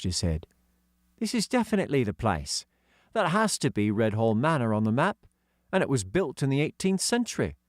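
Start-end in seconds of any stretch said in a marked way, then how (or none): 1.2-7.6 put-on a touch higher for young George; hint of a kid's voice; lightly voiced schoolboy George; lightly voiced boy. The speaker's voice.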